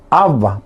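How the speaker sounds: "abba" read the Spanish way, AB-ba, first A stressed; "abba" with the stress at the front; Castilian reading. Shown as a demonstration. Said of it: "si usted lee en castellano".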